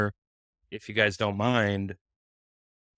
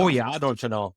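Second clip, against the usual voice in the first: a slip into a Minnesota accent. Real, not acted. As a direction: let the Minnesota accent come out. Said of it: "did my Minnesota accent come out there".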